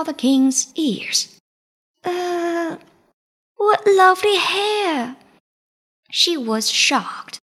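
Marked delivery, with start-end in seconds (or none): 2.0-5.2 high, startled gasp into forced praise. Acted. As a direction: caught off guard, then falsely bright. Meg startled by king's ears.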